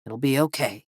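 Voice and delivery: quiet, resigned comfort; understated calm; said softly. A narrator's reading. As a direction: gently reassure a friend. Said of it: "Alaric said softly".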